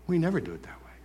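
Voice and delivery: whispered, imitating a stubborn churchgoer; mock whisper. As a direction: breathe it like a stuck-in-the-ways member. Mocking stuck churchgoers.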